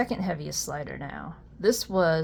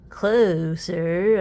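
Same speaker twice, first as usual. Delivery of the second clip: louder, stretched with a rising tune; odd drawn-out delivery; 7 dB louder than usual. Real, not acted. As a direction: say it in a strange playful singsong. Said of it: "I don't know why I said it like that".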